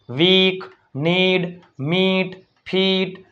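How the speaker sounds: ee held long in "વીક". Shown as a demonstration. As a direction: stretch the vowel in "મીટ". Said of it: "દીર્ઘાય આવશે બધાયમાં".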